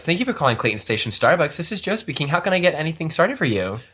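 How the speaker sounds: customer-service phone greeting, lightly put on; faux phone voice. Barista answering Starbucks calls, lightly done faux phone voice. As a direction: answer the coffee shop phone politely. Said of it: "that faux voice".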